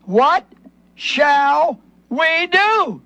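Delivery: slow, pleading cry of the crowd; drawn-out anguished plea. Retold or imitated. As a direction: drag out the plea like a desperate crowd. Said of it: "they cried out and said".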